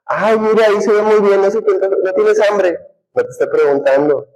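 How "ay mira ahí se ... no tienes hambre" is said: put-on hinting girlfriend. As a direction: play the girlfriend fishing to be offered food. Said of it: "Más si te dicen".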